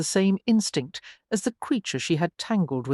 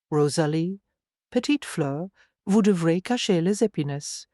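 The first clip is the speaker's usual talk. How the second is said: French spoken. Acted. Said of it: "particular accent and intonation of his French".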